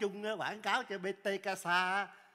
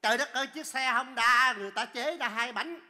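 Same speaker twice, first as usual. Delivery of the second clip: to và cao giọng kể tội; kêu trời trách móc ầm ĩ; than phiền bức xúc; 3 semitones higher, 4 dB louder than usual. Acted. Khách than phiền chuyến xe. (bực bội la trách)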